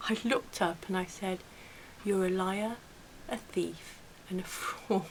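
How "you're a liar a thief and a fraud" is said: totally calm, composed delivery. Speaker retells what she said when she looked up, retelling a calm reply. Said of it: "it came out so calmly".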